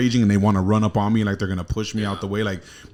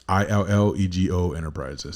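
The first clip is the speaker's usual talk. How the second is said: "I L L E G O" spelled slowly and a bit softer; spelling the email address again for a caller; 3 dB quieter than usual. Shown as a demonstration. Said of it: "That's how I tell my email address".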